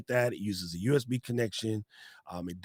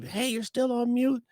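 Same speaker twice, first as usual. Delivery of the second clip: mimicked call-out; 14 semitones higher than usual. Folks alerting a muted caller, high mimicking call-out. Mimics people calling out on calls.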